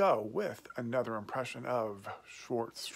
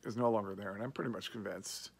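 muffled lips around pipe; talking around pipe stem. Real, not acted. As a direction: pipe clenched in teeth. Seen 4: Pipe stem at lips most frames, briefly lowered; smoking before and after.

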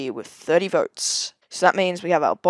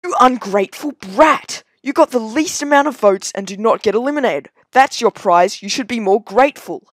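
wicked stepmother; 2 semitones higher, 5 dB louder than usual. Acted. Host scolds contestant.

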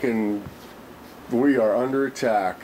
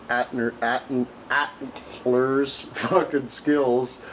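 stumbling laugh; much slower than usual. Real, not acted. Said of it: "Keep wanting to say antler".

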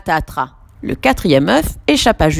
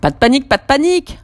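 hurried reassurance; 8 semitones higher, faster than usual. Acted. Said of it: "tente de rassurer Julie".

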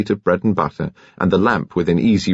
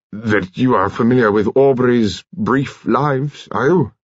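lightly voiced commander, slow and higher; hesitant commander; 4 semitones higher, slower than usual. A narrator's reading. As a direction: venture an awkward question. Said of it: "before his voice arrested her".

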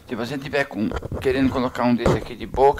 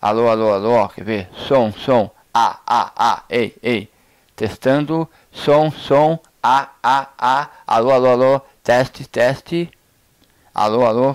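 projected, louder mic-check calls; mic test calls; 4 dB louder than usual. Shown as a demonstration. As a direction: call out the test words to the recorder. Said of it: "e vou gravar. Tô gravando já".

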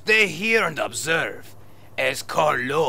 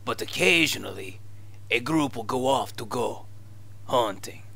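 fake Spanish accent; 2 semitones lower than usual. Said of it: "your fake Spanish accent".

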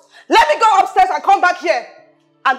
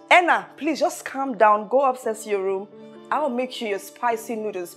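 lower, soothing imitation; imagined calming words; 6 semitones lower, 7 dB quieter than usual. Boss acts out what Chioma should have said, calming. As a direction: voice the calm friend you wanted. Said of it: "you would have said".

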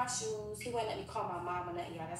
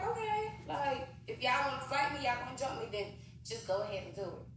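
daring them; 5 semitones higher than usual. Retold or imitated. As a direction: go on, I dare you, up high. Daring girls to jump her.

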